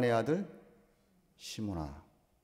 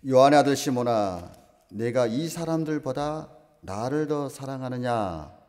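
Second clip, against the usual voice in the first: solemn calling out; 2 semitones higher, 7 dB louder, slower than usual. Acted. Preacher voices Jesus questioning Peter.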